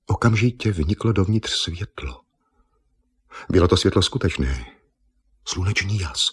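ordinary delivery, nothing marked

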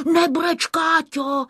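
high little character voice; lightly voiced, high-pitched comforting; consoling Škubánek. A narrator's reading. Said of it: "utěšoval jí Škubánek". (utěšující vysoký hlásek)

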